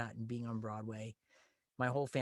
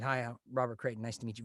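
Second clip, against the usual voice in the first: calm; faster than usual. Retold or imitated. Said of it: "Very calmly".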